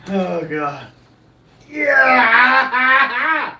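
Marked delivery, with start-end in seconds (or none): 1.7-3.6 sudden whoop. Real, not acted.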